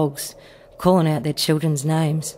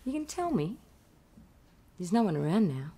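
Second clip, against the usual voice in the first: whispering; 9 dB quieter than usual. Acted. Prison cell whispered exchange.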